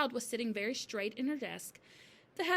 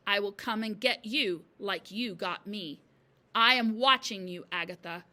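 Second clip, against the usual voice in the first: ghostly threat; 8 dB louder than usual. A narrator's reading. Ghostly chalk threatens headmistress.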